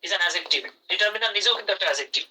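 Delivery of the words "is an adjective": slow emphatic repeat. Shown as a demonstration. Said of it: "I repeat".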